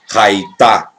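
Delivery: "raitá" said slowly, ending on an open vowel; silent final he. Shown as a demonstration. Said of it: "O re se torna mudo". ("raitá" com o re final mudo)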